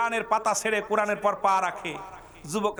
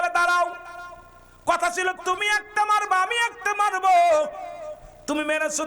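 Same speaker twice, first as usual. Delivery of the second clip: high, ringing preacher's delivery; full-force preaching; 10 semitones higher than usual. Acted. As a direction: tell the duel story to the crowd at high pitch. (উঁচু গলায় ওয়াজ)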